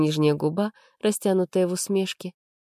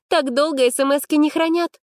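indignant retort; 10 semitones higher, 3 dB louder, slower than usual. A narrator's reading. Arina arguing with Max.

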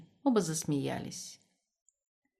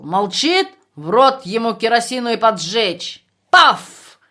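put-on loud, slow, bellowing drunk officer; drunken rant; 3 semitones higher, 11 dB louder than usual. Drunk battalion commander shouting down the political officer, loud drunken bellow. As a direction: roar it out, drunk and belligerent.

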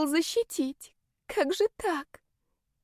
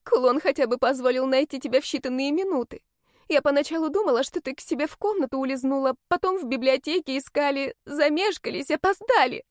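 much higher, frantic guilty explanation; distraught rush; 6 semitones higher than usual. Acted. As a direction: blurt it out near tears.

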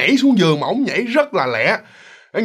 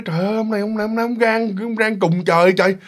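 an aunt fuming about her husband; indignant outrage; 6 semitones higher than usual. Retold or imitated. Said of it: "bà Mợ bà nghĩ".

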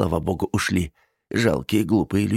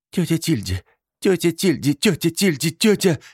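higher, rising frightened cries; panicked calling; 10 semitones higher than usual. A narrator's reading. Niece crying for her aunt, panicked. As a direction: call out in growing terror.

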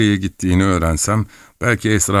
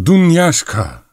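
put-on high, loud old woman's call; repeated shout; 11 semitones higher, 5 dB louder, slower than usual. A narrator's reading. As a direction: holler for the servant, high and loud. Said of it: "diye tekrarladı koca karı".

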